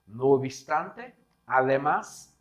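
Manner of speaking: no obstante drawn out slowly; slow reading. Shown as a demonstration. Teacher reading the options slowly to students, slow and clear. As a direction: spell out no obstante slowly for the class. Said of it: "puede ser substituída por".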